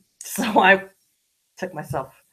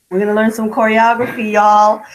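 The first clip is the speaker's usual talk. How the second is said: instructor announcing; 6 semitones higher, 6 dB louder than usual. Retold or imitated. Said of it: "she says".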